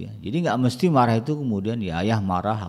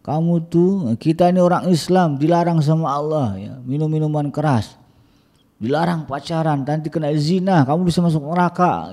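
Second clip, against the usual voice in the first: higher and louder, stern but polite; a stern, raised-voice sermon to the child; firm lecture; 8 semitones higher, 5 dB louder than usual. Shown as a demonstration. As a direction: lecture the child forcefully without insults. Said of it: "ceramah tapi keras".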